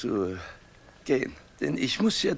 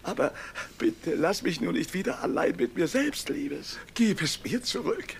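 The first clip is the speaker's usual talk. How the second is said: desperate pleading; 4 semitones higher than usual. Acted. Husband begs wife not to leave.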